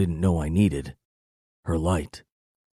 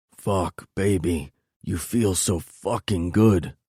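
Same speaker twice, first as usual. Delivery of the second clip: groaning; slower than usual. Acted. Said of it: "I groan".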